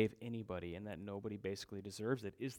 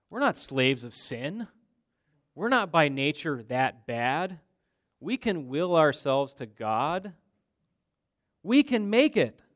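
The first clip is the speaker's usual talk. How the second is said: loud, stretched, insistent objection; mock proud protest; 3 semitones higher, 12 dB louder than usual. Preacher voicing the Jews answering Jesus, indignant protest. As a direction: protest it ever louder, rising to a high peak.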